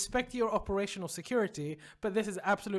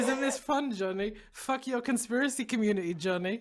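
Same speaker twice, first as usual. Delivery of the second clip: mock gloating; 3 semitones higher than usual. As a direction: needle him in jest. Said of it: "I would hold it over your head".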